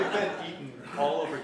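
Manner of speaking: words still laughing, quick; laughing while speaking fast. Real, not acted. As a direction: talk through the tail of a laugh.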